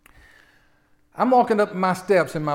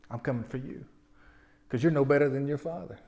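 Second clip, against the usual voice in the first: dark voice; 4 dB quieter than usual. Retold or imitated. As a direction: murmur it like a voice from the dark. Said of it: "this dark voice".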